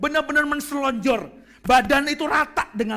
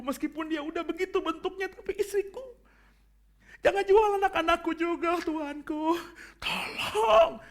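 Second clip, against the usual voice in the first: servant begging the king for mercy; desperate pleading; 4 semitones higher than usual. Shown as a demonstration. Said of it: "Mungkin dengan nada-nada seperti itu". (hamba memohon belas kasihan pada raja, memelas)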